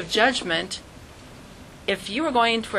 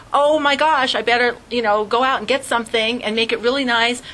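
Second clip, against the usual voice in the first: mock flustered rush; 3 semitones higher, 4 dB louder than usual. Panicked host voiced.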